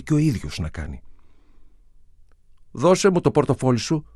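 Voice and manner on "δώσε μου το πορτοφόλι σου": put-on high, loud and fierce, a boy trying to sound tough; fierce command. A narrator's reading. Street kid demands the wallet at gunpoint, fierce and loud. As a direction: bark the demand as wildly as he can. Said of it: "πρόσταξε τον άντρα όσο πιο άγρια μπορούσε".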